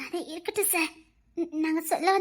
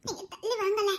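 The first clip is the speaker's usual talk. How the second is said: laughing tease; 3 semitones higher than usual. Acted. Girl teasing husband, laughing.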